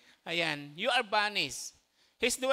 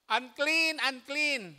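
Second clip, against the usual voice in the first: higher, louder unclean, unclean; raised leper's warning cry; called-out cry of unclean; 5 semitones higher, 3 dB louder, much slower than usual. Shown as a demonstration. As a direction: call it out like a leper warning people.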